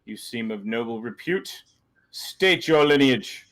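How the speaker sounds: barked order, then slow demand; commanding captain. Acted. Captain questioning Ganj, a lightly voiced command. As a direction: call out, then demand slowly. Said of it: "he turns to Ganj and goes".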